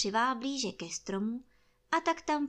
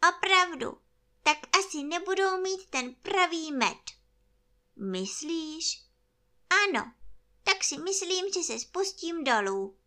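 high, loud bear voice; earnest toy bear; 8 semitones higher, 5 dB louder than usual. Acted. Bear decides to come down, high decided voice. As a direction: conclude firmly, pitched up. Pooh concludes from the balloon.

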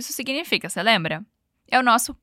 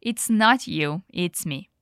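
slow breakup line; 5 semitones lower, slower than usual. Acted. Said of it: "A Ellie vem com a clássica desculpa".

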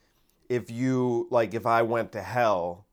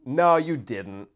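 mock calm denial. Lightly acted, calmly contradicting Hitler in hell. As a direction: deny it coolly to provoke him. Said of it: "And by saying to him".

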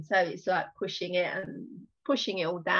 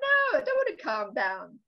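higher-pitched indignant refusal; mock protest; 6 semitones higher than usual. Answering someone who says calm down, mock-indignant. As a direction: push back, pitched up, as if riled.

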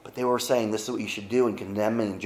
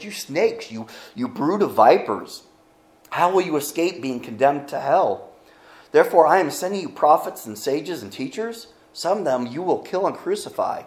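higher and louder, rising indignation; upset Jesus rebuke; 4 semitones higher, 4 dB louder than usual. Acted. Preacher acting out Jesus condemning leaders, indignant. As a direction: thunder the rebuke at the hypocrites. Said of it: "he would get upset sometimes".

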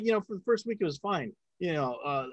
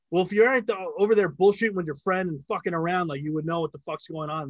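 louder, higher retold telling-off; scolding director; 4 semitones higher, 6 dB louder than usual. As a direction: imitate a director chewing out the sound guy. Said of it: "the director goes".

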